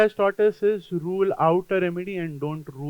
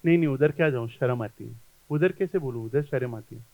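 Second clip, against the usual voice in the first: shy patient; 5 semitones lower, much faster than usual. Retold or imitated. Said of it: "timid and shy was more of embarrassment".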